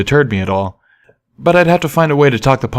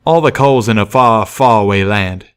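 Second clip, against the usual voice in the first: folksy train pony; 3 dB louder than usual. Acted. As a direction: explain like a simple hick worker.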